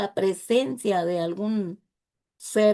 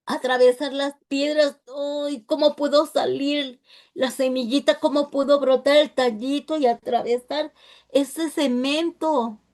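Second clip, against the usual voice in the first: a small plant straining through stone, a touch higher; voicing a little plant; 4 semitones higher than usual. Preacher voicing a little plant pushing through cement, lightly higher and pleading.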